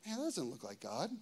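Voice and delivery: low, hushed discernment; quiet realization. Acted. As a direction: say it softly, as if to yourself.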